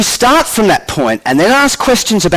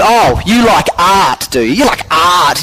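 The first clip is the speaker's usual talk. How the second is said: smug science student. Retold or imitated. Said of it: "some real sort of smug sort of science student goes".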